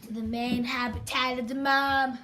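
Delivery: soft sneaky narration; hushed. Pretend. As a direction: narrate like stalking prey. Sneaking up on mom.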